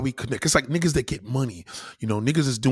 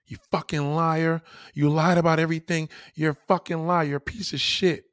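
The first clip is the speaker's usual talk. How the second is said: higher, forceful angry accusation; pitched-up furious "You fucking liar"; big-dick version; 5 semitones higher than usual. Shown as a demonstration. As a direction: call him out with full conviction. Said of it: "See the difference?".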